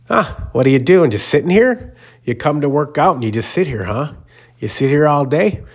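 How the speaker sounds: high, needling mock taunt at a guy in a lobby chair; mocking gym guy. Gym regular taunting the teller in the lobby, high mocking voice.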